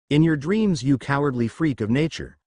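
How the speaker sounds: a mild angry shout that fades; angry yell. Acted. Joey shouting at Merrick, mildly angry. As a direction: hurl the insult at Merrick. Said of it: "Joey yelled angrily".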